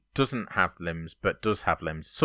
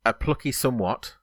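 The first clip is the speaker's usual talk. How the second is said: measured chunks, left hanging for confirmation; three words at a time. Shown as a demonstration. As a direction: read it out in threes, pausing after each. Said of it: "I'll do it three words at a time".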